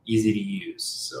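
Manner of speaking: echoey, distant room sound; like talking from inside a cave. Real, not acted. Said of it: "you sound like you're in a cave".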